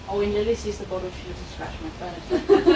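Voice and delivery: imitating the sister. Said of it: "And she's like".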